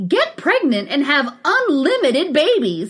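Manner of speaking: hammed-up promo headline; mock sales headline. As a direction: sell it like an absurd headline. Hammed-up reading of absurd sales headline.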